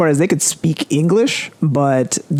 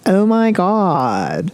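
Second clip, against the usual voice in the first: put-on very drawn-out, higher Valley Girl accent; exaggerated Valley Girl accent, slow and pitched up; 4 semitones higher, much slower than usual. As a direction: stretch every word in mock Valley Girl. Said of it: "The Valley Girl accent".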